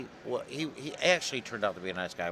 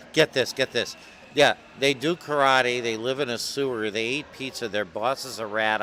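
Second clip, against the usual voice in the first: louder, animated rundown; a touch of giddy disbelief, louder; excited retelling; 3 semitones higher, 8 dB louder than usual. Retold or imitated. Editor pitching the turtle books to the illustrator, lightly excited.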